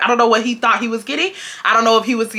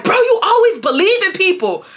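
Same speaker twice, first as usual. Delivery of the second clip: half yell; 9 semitones higher than usual. Retold or imitated. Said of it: "not really screaming at her loud".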